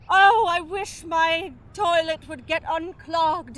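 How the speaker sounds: slow wish in a put-on British accent; slightly British-sounding plea. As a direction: voice a wisher with British airs. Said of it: "Are you doing a British accent?".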